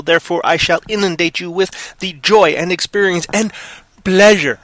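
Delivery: dripping mock enthusiasm; sarcastic. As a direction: sell the joy sarcastically. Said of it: "wait, that was in sarcasm voice".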